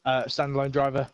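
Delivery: winded from running upstairs; breathless, catching breath between words. Real, not acted. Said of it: "Excuse me while I'm out of breath".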